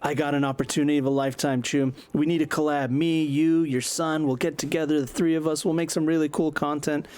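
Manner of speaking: high, fast sales pitch; pushy vlogger. Acted. Buzz pitching Kerry a collab, high and fast. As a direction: hype up the collab.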